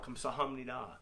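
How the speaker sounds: soft, respectful "Kamsahamnida"; bowing thanks. Shown as a demonstration. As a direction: say it quietly as you bow. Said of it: "we say it as we bow".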